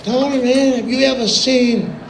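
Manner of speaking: a hint of an impersonated country friend, a country singer. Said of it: "and he goes".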